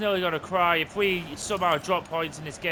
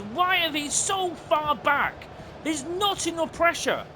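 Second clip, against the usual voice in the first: frustrated rant; 6 semitones higher than usual. Real, not acted. Ranting at the game AI.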